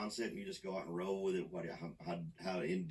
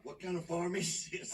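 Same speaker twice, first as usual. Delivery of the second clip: much higher, slow incredulous question; real amused disbelief at a weird chore; shocked disbelief; 12 semitones higher than usual. Real, not acted. Reacting to a gross farm detail.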